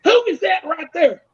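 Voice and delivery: high, insistent redneck voice; imitated redneck. Redneck asks Bubba about a stranger, high mock voice. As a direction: demand it in a high redneck twang. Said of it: "I tell you the way he said it".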